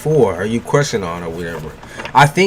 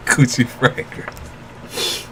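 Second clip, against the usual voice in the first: whispered aside; 5 dB quieter, much slower than usual. Pretend.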